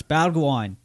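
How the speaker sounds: Australian place name in an obnoxious American take; obnoxious American Australian accent. Shown as a demonstration. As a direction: put on a bad Aussie accent, as an American. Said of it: "saying it with an obnoxious American Australian accent".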